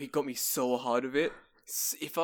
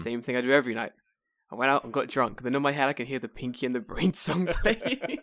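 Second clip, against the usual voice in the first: put-on loud drunk boast; 6 dB louder than usual. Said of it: "And I was like".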